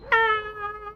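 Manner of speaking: high, held, muffled "ah"; muffled yell imitation. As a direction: mimic a distant yell through the floor. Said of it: "I just heard this really muffled".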